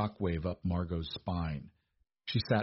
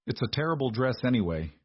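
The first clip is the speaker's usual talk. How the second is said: blunt; 4 semitones higher than usual. Acted. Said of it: "no malice in his tone, just a blunt factual observation".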